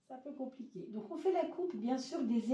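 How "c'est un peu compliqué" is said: breathy little laugh through the words; laughing softly. Real, not acted. Hoarse astrologer laughing at her sound problems, softly laughing. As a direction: laugh it off, almost whispered.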